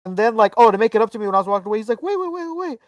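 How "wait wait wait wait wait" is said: calling after. Retold or imitated. Vendor calling him back.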